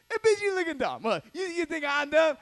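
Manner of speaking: loud, high mock outburst at the taped wife; mock angry rant. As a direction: ham up a furious boyfriend yelling. Retelling a man's angry rant.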